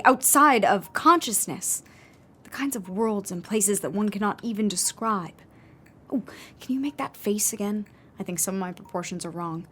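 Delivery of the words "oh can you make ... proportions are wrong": hushed, absorbed whisper while sculpting; whispered request. Acted. Sculptor quietly asking her friend to hold the expression, whispering. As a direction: murmur it, eyes on the clay.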